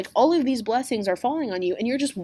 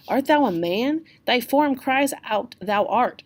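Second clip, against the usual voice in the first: higher, slow reproachful challenge; scolding friar; 5 semitones higher, 5 dB louder, slower than usual. Acted. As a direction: shame him as the friar, drawn out.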